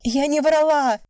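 high loud protesting shout with the stress on "врала"; breaking into a shout. A narrator's reading. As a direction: scream the denial back at him. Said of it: "Вика тоже срывается на крик". (срывается на крик, высоко и громко)

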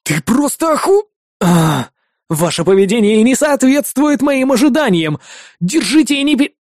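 high, forced-polite scolding. A narrator's reading. Hero scolding partner, high and forced polite. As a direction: swallow the curses mid-word. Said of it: "ругался я".

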